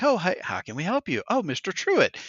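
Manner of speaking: front desk greeting. Retold or imitated. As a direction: sing out a mock welcome at the desk. Voicing front desk staff greeting him.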